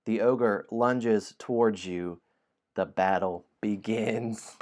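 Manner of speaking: slow, dramatic storybook reading; story narration. A narrator's reading. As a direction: announce the fight with weight.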